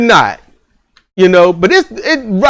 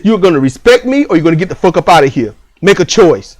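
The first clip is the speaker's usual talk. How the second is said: firm father; 2 semitones lower, faster than usual. Pretend. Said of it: "Be like this".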